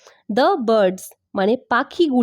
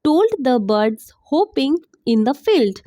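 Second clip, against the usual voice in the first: very slow, separated English words; slow teaching pace; much slower than usual. Shown as a demonstration. Teacher reading story line to learners, very slowly. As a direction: model each word slowly for copying. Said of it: "অনেক আস্তে আস্তে".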